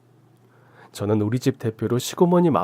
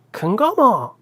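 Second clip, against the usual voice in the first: gruff reply; 10 semitones higher, 4 dB louder, much slower than usual. A narrator's reading. Aunt answers who she is.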